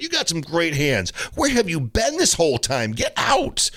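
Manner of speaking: high-pitched, hyped-up encouraging coach; relentlessly enthusiastic tennis pro demo; over-the-top coach. Shown as a demonstration. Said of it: "might seem a bit over the top".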